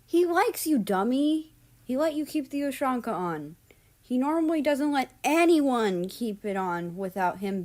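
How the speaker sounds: put-on high, loud teasing girl voice; teasing Japan.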